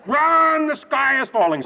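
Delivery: high, loud storybook alarm; mock scream. Chicken Little warns Goosey Lucy, mock scream. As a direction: sound the alarm, drawing out the first word. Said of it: "she started to run and scream".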